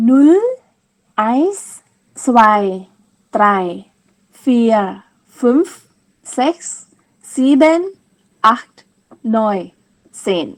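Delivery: each number clipped apart for the class to repeat; teacher leads a German counting drill; German count to ten. Shown as a demonstration. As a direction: count one by one so they can echo. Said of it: "ท่องตามนะคะ".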